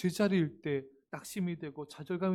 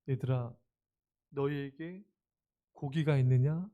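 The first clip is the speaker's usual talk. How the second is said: gentle Jesus voice; 2 semitones lower than usual. Acted. Jesus gently calling to his disciples, tender. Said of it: "너무 친절하시죠".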